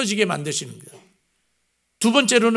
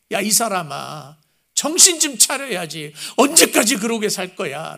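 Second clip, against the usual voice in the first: earnest plea. Retold or imitated. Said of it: "하나님의 간절한 호소".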